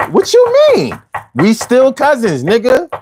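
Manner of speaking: high-pitched baffled comeback; acted indignant disbelief; incredulous question. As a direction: ask it like you can't believe what you heard. Acted dialogue, the puzzled cousin.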